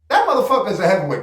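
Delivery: "That motherfucker is a heavyweight" rattled off fast, all at once; rapid repeat. Shown as a demonstration. Streamer insists to his chat, saying it fast. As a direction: fire it back quickly for emphasis. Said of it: "but that motherfucker is a heavyweight".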